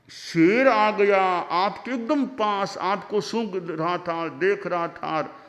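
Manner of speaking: marvelling, drawn-out wonder at the guru; awed disciple. Acted. Disciple marvels at guru's calm. (विस्मित चेले का धीमा जोशीला बयान)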